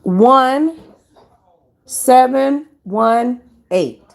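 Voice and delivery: digits spaced out slowly; slowly dictated. Shown as a demonstration. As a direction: say each number slow and clear. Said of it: "I'll say it slow".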